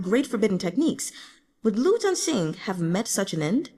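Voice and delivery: a hint of a young ruler pleading his case; emperor's voice. Emperor addresses General Gu.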